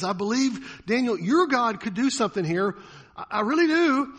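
a torn king begging Daniel's God to act; anguished plea. Retold or imitated. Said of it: "tearing on him so much".

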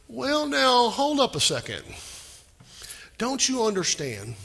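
a touch of disbelief, voice jumping up; incredulous Lot. Retold or imitated. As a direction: Lot balks at the angel, mildly incredulous.

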